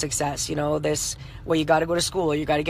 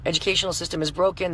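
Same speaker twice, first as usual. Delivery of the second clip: ordinary talk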